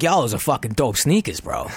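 lightly put-on New York accent; a half-hearted New York accent, Brooklyn slang; bad New York accent. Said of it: "Now I do a bad New York accent".

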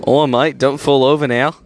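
ordinary talk

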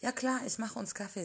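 bubbly and bright. A narrator's reading. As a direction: sweep the guest in cheerfully. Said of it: "zieht sie an der Hand". (Samira lädt Jenny munter und etwas höher zum Kaffee ein)

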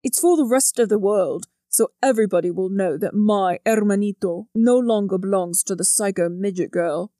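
protective brother, lightly characterised; a hint of a scornful older brother; understated character voice, declaring it to everyone; lightly voiced Leo. A narrator's reading. Narrator voices Leo in dialogue.

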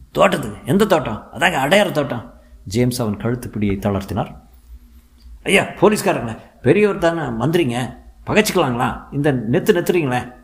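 high, anxious whining; scared henchman. A narrator's reading. Henchman answering the police, high and anxious. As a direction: whine out answers to avoid another blow.

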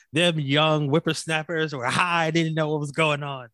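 put-on cranky geezer griping about kids; old man voice. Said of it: "let me get my old man rocking chair".

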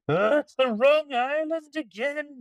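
high, complaining pirate voice; grumbling pirates. Acted. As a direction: moan like disappointed pirates.

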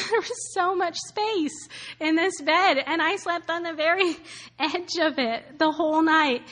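laughing through the words; amused, self-mocking laugh in the voice. Real, not acted. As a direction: chuckle while admitting it felt silly. Laughing at her lonely hotel night.

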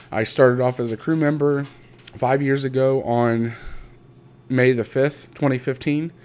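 real, mildly hyped-up pride; a little hyped up. Real, not acted. Speaker recounting a first promotion at work, a little hyped up. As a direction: tell it with some lift and push. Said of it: "hyped up, I guess you would say".

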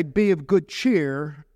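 each word drawn out slow; slow emphatic quote. Shown as a demonstration. Pastor slowly quoting Jesus' words to the church. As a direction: lean on it slowly, as Jesus' comfort. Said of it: "You don't say".

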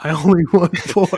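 lightly voiced customer; put-on customer voice. Acting out skit customer.

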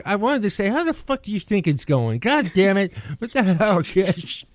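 retold irritation. Irritated friend's unsaid retort to the grinning latecomer, exasperated. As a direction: act out the retort you held back. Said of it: "I'm getting kinda irritated".

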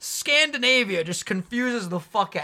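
laughing while repeating it. Real, not acted. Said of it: "That sentence is just hilarious".

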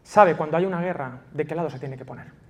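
hushed, tender sermon voice; intimate sermon. Acted. Pastor gently assuring migrants about God's kingdom, hushed. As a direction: draw the listeners in close.

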